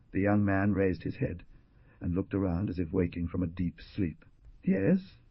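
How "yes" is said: sweetly. A narrator's reading. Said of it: "Carmela answered sweetly".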